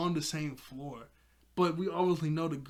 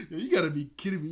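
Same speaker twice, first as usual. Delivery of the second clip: excited disbelief; 5 dB louder, faster than usual. Real, not acted. Reacting to wolves.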